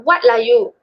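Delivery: breezy Manglish lilt on the question; Manglish intonation. Shown as a demonstration. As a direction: toss it off casually, Manglish style. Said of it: "I will say out Manglish and English".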